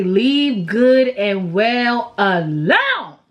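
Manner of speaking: slow, drawn-out grandma saying; quoting grandma. Retold or imitated. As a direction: pass on grandma's old advice slowly. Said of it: "My grandma used to always say".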